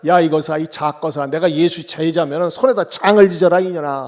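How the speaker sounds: acted cursing, fairly loud; cursing yell. Peter curses the girl while denying Jesus, loud mock-angry oath. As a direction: hurl an oath in mock anger. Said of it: "막 소리소리 질렀어요".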